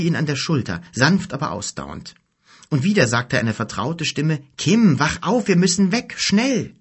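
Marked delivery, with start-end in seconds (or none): 4.6-6.7 much higher, louder, pressing harder; urgent call. A narrator's reading. Mother shaking Kim awake, urgent and loud. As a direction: urge him awake, rising in alarm.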